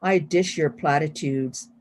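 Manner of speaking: slow, measured poem recital; poetry reading. Acted. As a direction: savor each line as you read your poem. Reads poem number thirty-six.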